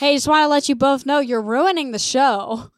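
mock scolding, punched out; retold anger. Angry comic telling off two kids in the audience, mock mad. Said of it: "He was so mad".

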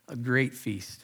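"great" drawn out and weighted, voice falling; stress on great. Shown as a demonstration. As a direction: lean on the word "great". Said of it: "Emphasis on the word great".

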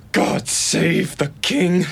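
slow, loud hammy last words; milk the dying patriot bit; dying soldier toast. Pretend. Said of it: "Jack plays dying soldier".

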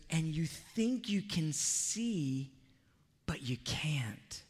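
slow, hushed, half-whispered rebuke; hushed, sorrowful Jesus. Retold or imitated. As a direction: lean in and let it drop to a whisper. Jesus voiced confronting the church.

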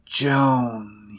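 one name, slowly drawn out. A narrator's reading. Old man recalling a long-forgotten name, said slowly. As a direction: stretch the word out as it slowly comes back. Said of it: "he said slowly".

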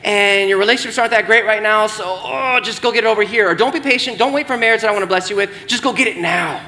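fast, coaxing whisper-free tempter; a lightly voiced devil, rushing you into it; Satan luring the congregation, quick and pushy; tempting Satan voice. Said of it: "Satan uses it to be like".

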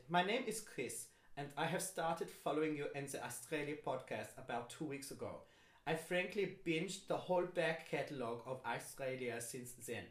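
put-on amateur German accent, reading aloud; bad German accent. Host reading a fan's email, bad German accent. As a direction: read it out as a badly imitated German. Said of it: "if I do this with a bad German accent".

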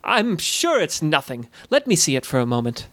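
tag. Acted. Voices the reassuring goblin.

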